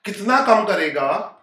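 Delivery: slow, drawn-out teacher question; deliberately slow, word by word. Shown as a demonstration. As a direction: stretch out each word so students can follow. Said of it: "slow कर रहा हूं".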